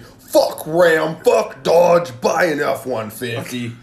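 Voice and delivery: slow mock truck commercial voice; hammed-up announcer pitch; ad read. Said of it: "do the ad read".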